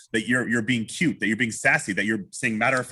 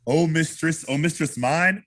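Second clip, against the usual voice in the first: high, playful questioning; cute, high-pitched wooing; smiling; 8 semitones higher, 3 dB louder than usual. Shown as a demonstration. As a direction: ask with a big smile in the voice. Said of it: "the smile on your face".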